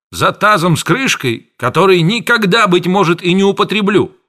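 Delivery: high, loud furious rant; outraged pharmacist yelling at his apprentice; apothecary shouting. A narrator's reading. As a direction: scold him at the top of your voice. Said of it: "а аптекарь кричал".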